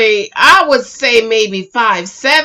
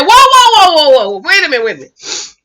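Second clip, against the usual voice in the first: mock startled interruption; 3 semitones higher, faster than usual. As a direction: act out a retold "hold on" moment. Acts out Andre's startled interruption.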